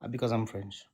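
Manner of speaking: put-on troll caller claiming a French accent. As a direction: play it as a fake Frenchman. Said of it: "to a French accent".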